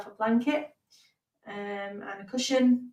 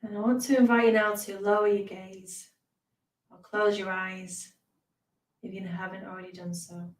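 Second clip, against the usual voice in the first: guided meditation. Real, not acted. Teacher invites beginners to close their eyes, guided meditation. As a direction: ease them gently into stillness.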